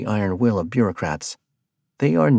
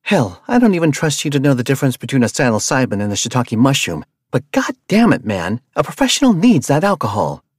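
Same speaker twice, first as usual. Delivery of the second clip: loud, high-pitched angry tirade; yelling in his face, outraged; furious rant; 5 semitones higher, 5 dB louder than usual. Acted. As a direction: tear into him, furious and loud. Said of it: "launched herself off of the van".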